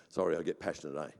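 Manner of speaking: low, soft reassurance after shouting; sheepish aside. Real, not acted. Preacher reassures congregation he isn't yelling, quietly apologetic. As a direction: drop right down and excuse yourself.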